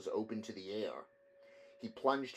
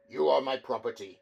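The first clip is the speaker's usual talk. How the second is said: stern owner; 2 semitones higher, 9 dB louder than usual. A narrator's reading. Ampliatus confronts Attilius angrily.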